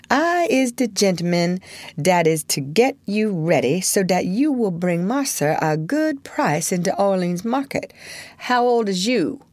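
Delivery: brisk, bossy servant voice; lightly voiced commanding servant; slave dealer's helper. Pompey voiced in story.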